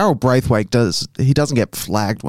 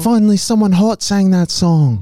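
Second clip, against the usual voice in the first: excited fan; 7 semitones higher than usual. Retold or imitated. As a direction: gush like a thrilled fan.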